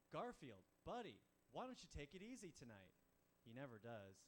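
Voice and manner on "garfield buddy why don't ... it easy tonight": lightly exasperated coaxing, swooping pitch; mild coaxing. Acted. Owner to Garfield on Friday night, mildly coaxing. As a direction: gently talk a pal out of it. Comic pleading with Garfield in a story.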